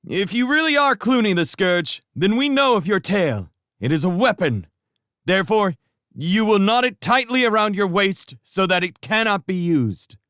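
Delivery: high, loud demand from the wall; cried down. Acted. Matthias demanding Clooney knot his tail, loud call downward. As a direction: call down firmly. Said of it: "Matthias cried down to Clooney".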